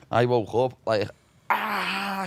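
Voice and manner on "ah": mock scream.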